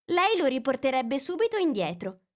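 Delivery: put-on young girl's voice pitched high, eager; a curious girl asking for a story; Alice. A narrator's reading. Curious girl reminding the mouse of his promise, lightly voiced.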